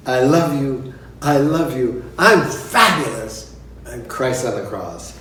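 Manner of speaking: lightly voiced diva lines; mock diva inner voice. Singer on stage miming, mock diva lines. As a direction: declaim them like a hammed-up diva. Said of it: "She's going".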